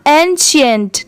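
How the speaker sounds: एंशिएंट built from "एन" plus "सेंट"; teacher's demonstration of एंशिएंट, joined from its two parts; pronunciation model. Shown as a demonstration. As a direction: model एंशिएंट as one whole word for learners. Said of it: "पूरा क्या हो जाएगा?".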